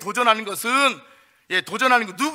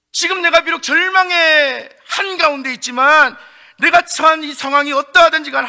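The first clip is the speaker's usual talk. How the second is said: louder and higher, a firm declaration of belief; fervent faith; 4 semitones higher, 5 dB louder than usual. Acted. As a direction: proclaim your trust boldly. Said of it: "예, 이렇게 말할 수도 있겠어요". (뜨겁게 믿음을 고백하듯이)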